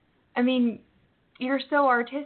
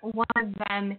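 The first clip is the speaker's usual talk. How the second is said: glitchy, distorted connection; robotic distortion. Real, not acted. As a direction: voice clicking in and out like a robot. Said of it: "your voice is distorting".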